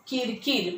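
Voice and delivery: किरकिर said quickly with short i; किरकिर with brief, quick vowels. Shown as a demonstration. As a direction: say किरकिर promptly, without stretching the i. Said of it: "पटकन म्हणालो आपण".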